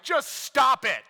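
high, loud, drawn-out mock shout; hammed-up parental outburst; exasperated dad. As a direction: snap like a fed-up dad, slowly and loudly. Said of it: "me being the dad".

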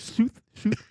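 Sooth, Sooth with an Irish oo vowel, high; Irish south. Retold or imitated. Mimicking the Irish wife saying Sooth, high. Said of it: "I go".

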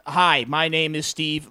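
neutral Nebraska accent, slow. Shown as a demonstration. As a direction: say it slowly in plain Nebraskan. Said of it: "they pronounce everything s-, like, phonetically".

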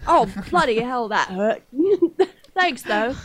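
a mock British accent drifting Australian; mock British turned Australian. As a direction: play a Brit who sounds Aussie. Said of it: "That was a little more Australian".

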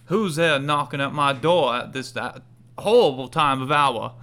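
lightly voiced indignant mayor; grumpy mayor. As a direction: grumble as a mayor disturbed at home. Game master voices irate mayor.

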